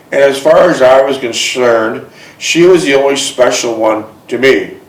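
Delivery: measured read-aloud storytelling; story narration. A narrator's reading. Man reads his romance memoir aloud to a listener, measured narration. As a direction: read it like a personal memoir, phrase by phrase.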